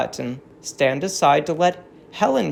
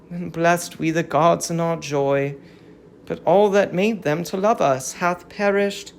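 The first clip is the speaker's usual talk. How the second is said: mournful chorus; 4 semitones higher than usual. Acted. Captive women mourning Troy, in a sorrowful chant. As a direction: lament the lost city like a chorus of captive women.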